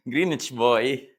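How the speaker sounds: teasing laugh. Real, not acted. Teasing friend eating pizza.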